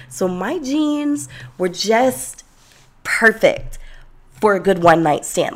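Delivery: usual speaking voice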